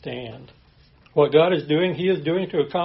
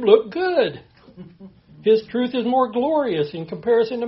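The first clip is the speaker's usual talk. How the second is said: mock complainer; 5 semitones higher, 3 dB louder than usual. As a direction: ham up the sinner blaming God. Preacher voices a whining complainer.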